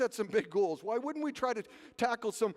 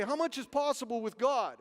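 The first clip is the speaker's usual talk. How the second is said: lightly voiced preacher, higher pitch; imitated preacher; 5 semitones higher, 3 dB louder than usual. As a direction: put the question to a congregation. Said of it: "when he preached one day".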